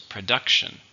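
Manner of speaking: "Production" stressed on DUC; "Production", punching DUC; stress on second syllable. Shown as a demonstration. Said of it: "Stress on the second one".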